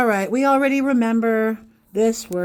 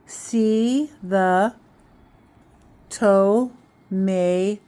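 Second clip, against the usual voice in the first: sounded out slowly; much slower than usual. Shown as a demonstration. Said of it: "And then blend the sounds".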